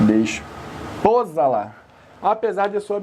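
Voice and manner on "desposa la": desposá-la split slowly as des... POsala, lower; slow, low "desposá-la" stressed on PO; mocked misstressed word. Shown as a demonstration. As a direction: pause inside "desposá-la", then lean on PO. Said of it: "Que coisinha também".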